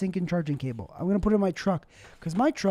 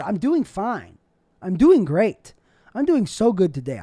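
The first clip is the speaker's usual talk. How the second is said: louder, building I'm doing great; pushing cheer, louder each line; emphatic reassurance; 6 dB louder than usual. Real, not acted. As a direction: insist you're doing well. Insisting he's fine after relapse.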